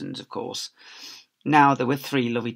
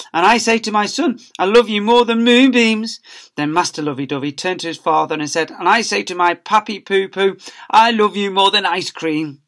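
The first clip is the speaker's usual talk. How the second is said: put-on high, louder sugary baby talk; gushing child; 6 semitones higher, 7 dB louder than usual. Pupil gushing to his papa, high baby talk. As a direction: coo it like a teacher's pet. Family declare love.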